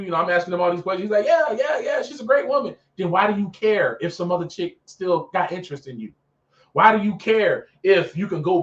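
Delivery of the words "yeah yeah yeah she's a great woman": mock assurance. Mimics the man's dismissive assurance.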